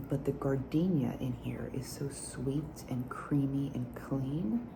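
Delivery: breathy unvoiced whisper, close to mic; whisper with nail taps. ASMR whispered perfume review.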